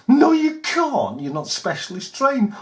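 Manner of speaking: a hint of a stern copper; stern refusal. Voicing armed officer refusing.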